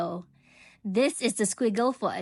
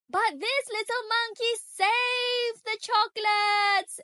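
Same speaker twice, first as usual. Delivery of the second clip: pleading explanation; 10 semitones higher, slower than usual. A narrator's reading. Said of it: "explained the workers".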